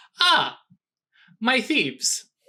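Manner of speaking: put-on crisp, clipped British accent, high and swooping. Voicing a woman by the fireplace who greets the thieves: clipped British voice. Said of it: "clipped British, clean English".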